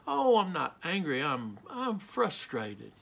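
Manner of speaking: mild, halting denial, slowing and softening at the end; denying anger. Acted. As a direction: back away from the word angry, hesitantly. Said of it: "afraid to use the word angry, so we say".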